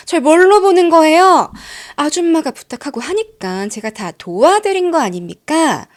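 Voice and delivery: scoffing, then building to a loud offended shout; sudden outburst. Retold or imitated. Tenant blowing up at landlady, building to an offended shout. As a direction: start with a scoff, end in a yell. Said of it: "갑자기 화를 버럭 내더니".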